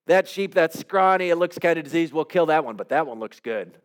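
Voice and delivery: breezy mock excuse-maker picking what to keep; a hint of a careless king shrugging it off; Saul making excuses. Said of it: "In other words, like".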